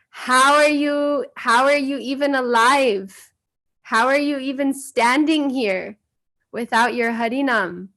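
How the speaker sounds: high, loud, indignant scolding; imitating an outraged teacher; retold angry shouting. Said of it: "He was very angry".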